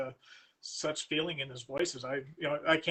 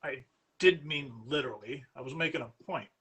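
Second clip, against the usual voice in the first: mild sneer. Acted. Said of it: "Mister Markham sneered".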